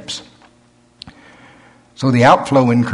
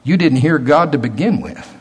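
accusing inner voice; 4 semitones higher than usual. Acted. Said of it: "and it's going".

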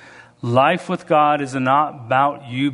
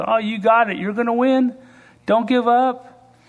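God cheering you on; 10 semitones higher than usual. Retold or imitated. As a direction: cheer them on like a proud father. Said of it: "he sits and laughs and goes".

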